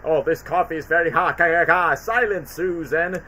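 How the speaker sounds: lightly voiced alien overlord, slow opening; Galaxar impression. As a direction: play a comic alien villain giving orders. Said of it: "Galaxar is a pretty funny alien where he goes".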